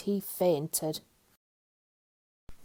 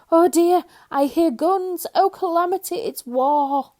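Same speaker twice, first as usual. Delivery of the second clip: high, loud terrified wailing; panicked shriek; 9 semitones higher, 9 dB louder than usual. A narrator's reading. Mister Jelly panicking over his cornflakes, shrieking loud and high. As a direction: shriek like guns are firing.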